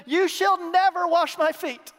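loud, high, slow line hitting "never"; emphatic NEVER. Retold or imitated. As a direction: raise the voice and drive hard on "never". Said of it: "There's an emphatic never there".

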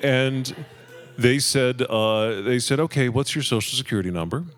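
high, hammed-up Russian accent on the phone; fake Russian accent. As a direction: put on a thick Russian accent to fool the bank. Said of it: "Make a little accent. More convincing".

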